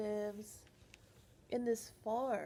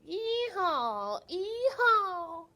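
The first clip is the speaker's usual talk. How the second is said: loud high ee-haw braying; donkey bray; 8 semitones higher, 7 dB louder, much slower than usual. Acted.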